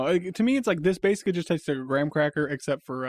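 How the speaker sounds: talking with a mouth full. Real, not acted. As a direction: mouth full of crunchy snack. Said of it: "You can, you can talk with your mouth full".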